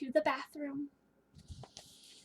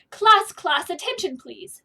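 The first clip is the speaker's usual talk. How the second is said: loud call for the class's attention; teacher calling class to order; 2 semitones higher, 7 dB louder than usual. Acted. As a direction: principal calling the room to order.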